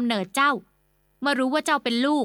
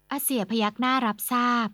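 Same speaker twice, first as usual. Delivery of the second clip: usual speaking voice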